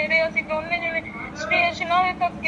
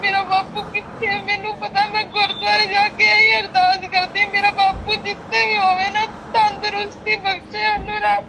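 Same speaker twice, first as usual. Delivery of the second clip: higher, near tears, pleading; real distress; 5 semitones higher than usual. Real, not acted. Daughter tells the caretaker of her sleepless worry, near tears. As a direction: voice rising as the worry breaks through.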